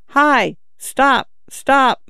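a high, indignant cry of stop; father crying out at his daughters to stop. A narrator's reading. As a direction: put real outrage into the call. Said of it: "This last cry expressed real indignation".

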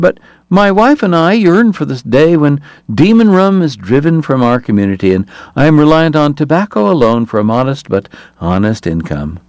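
a big man's piping voice trailing off; high-voiced Hoover.

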